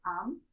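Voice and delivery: "am" with open A and sounded M; non-nasal sound. Shown as a demonstration. Teacher correcting "en" in the exception, non-nasal. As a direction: give "am" a plain oral A, then close on M. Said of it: "This time it isn't a nasal sound".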